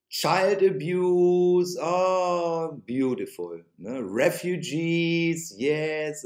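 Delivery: slow, mock-delighted praise of the left; sarcastic drawl. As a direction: savour each word with heavy sarcasm.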